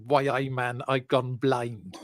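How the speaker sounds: bad Geordie accent, slow ending; lightly done Geordie accent. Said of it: "my terrible Geordie accent".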